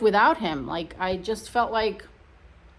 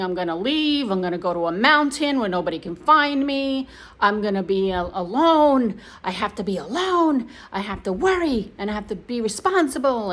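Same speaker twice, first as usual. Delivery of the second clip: mildly mocking replay of a rant; mock complaining, stressed words drawn up; imitated rant. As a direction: act out someone's self-pitying tirade. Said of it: "we have to listen to his rant".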